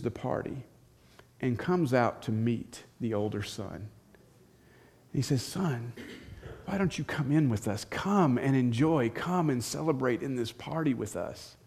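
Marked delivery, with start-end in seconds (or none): 5.4-11.6 gentle plea. Acted. Father gently pleads with son.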